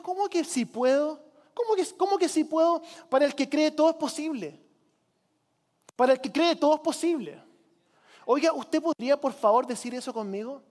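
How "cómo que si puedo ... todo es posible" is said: raised, higher indignant retort; indignant Christ. Retold or imitated. Christ rebuking the doubting father, indignant and raised. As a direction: push back sharply, incredulous. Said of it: "Y Cristo se, se enoja".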